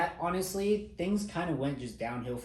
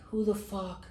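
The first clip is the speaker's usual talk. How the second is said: a much higher, put-on drill-instructor voice; imitating angry instructor; 4 semitones higher than usual. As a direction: mimic the instructor's angry demand. MTI yelling over recruit's bed.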